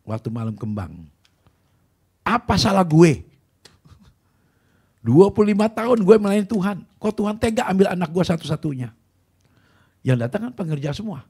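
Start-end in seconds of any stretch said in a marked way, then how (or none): 2.2-8.9 wailing cry. Retold or imitated. Grieving father shouting at God, loud high lament. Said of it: "Dia teriak-teriak".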